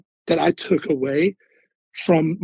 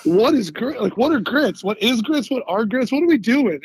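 higher-pitched, bewildered retold questions; mock bafflement; 6 semitones higher than usual. New recruit questioning the chow-line lady about grits, in mock bafflement. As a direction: play baffled, firing off questions in a raised pitch.

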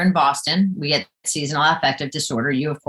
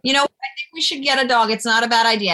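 retold suggestion; 6 semitones higher, faster than usual. Retells proposing dog to husband.

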